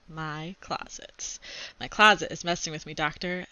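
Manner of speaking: put-on reading a chapter book aloud to kids; steady read-aloud storytelling; story narration. A narrator's reading. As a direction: tell it like a kid's diary read to class.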